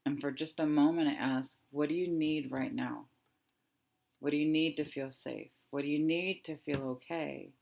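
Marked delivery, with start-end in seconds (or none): 1.7-7.5 slow gentle asking. Shown as a demonstration. Coach slowly asks her fear what it needs. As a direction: ask tenderly what it needs. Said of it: "slowing it down again".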